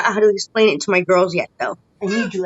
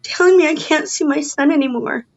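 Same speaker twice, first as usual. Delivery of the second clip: higher-pitched real distress; distressed protest; 5 semitones higher than usual. Real, not acted. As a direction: protest it in high, upset disbelief. Mother protests being cut off from son.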